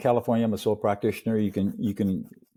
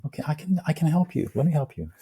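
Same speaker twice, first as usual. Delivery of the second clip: gently acted reassurance in a higher voice; very gentle; 7 semitones higher than usual. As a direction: offer help as if soothing a baby. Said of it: "it's very gentle".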